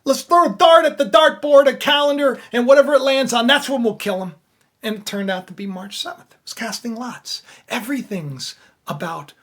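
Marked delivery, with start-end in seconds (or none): 0.0-4.3 loud, high, flippant planning voice; hammed-up careless schemers, louder and higher; careless plotters. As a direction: toss it off like picking a date is a game. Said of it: "You're like".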